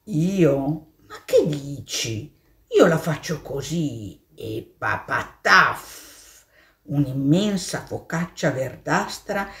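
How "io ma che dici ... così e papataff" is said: a lightly voiced slow cow; a hint of a lazy cow. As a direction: brush it off heavily. Cow answers the mole.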